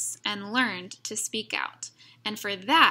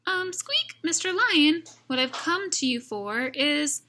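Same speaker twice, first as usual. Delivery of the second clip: much higher, timid little mouse; squeaky mouse voice; 6 semitones higher, 3 dB louder than usual. Acted. Mouse nervously waking the lion, high and squeaky. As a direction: squeak it out nervously, small and polite.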